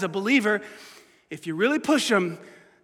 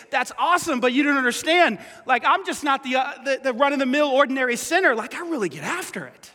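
protesting sinner; 4 semitones higher than usual. Retold or imitated. Pastor voicing a sinner arguing with Jesus, pleading. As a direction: push back as the guilty listener.

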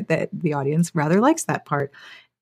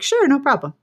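app voice; 7 semitones higher than usual. Retold or imitated. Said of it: "And it's like".

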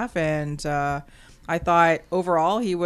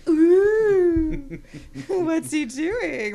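puzzled surprise; 9 semitones higher, 4 dB louder, much slower than usual. Retold or imitated. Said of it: "was a kind of like a".

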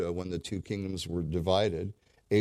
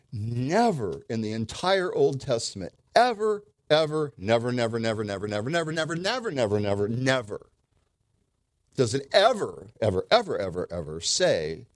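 1 emphatic preaching; 3 semitones higher, 5 dB louder than usual. Real, not acted. Preacher hammering a point home.

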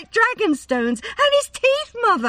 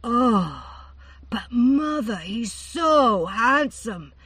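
higher, stammering infatuation; lovestruck gushing; 5 semitones higher, 6 dB louder than usual. A narrator's reading. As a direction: gush over him like a smitten girl. Daughter swooning over handsome rider.

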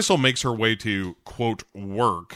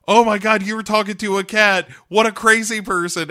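much higher, louder, sneering; mocking mean girls; 9 semitones higher, 6 dB louder than usual. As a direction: taunt her like a mean girl. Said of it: "And they're like".

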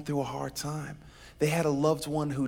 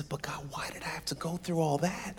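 weeping Joseph; 2 semitones higher, 6 dB quieter than usual. Acted. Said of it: "But Joseph weeps".

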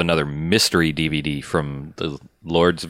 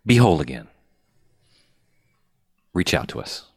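infomercial voice. Acted. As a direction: sell it like a late-night infomercial. Mock-earnest plug for contacts.

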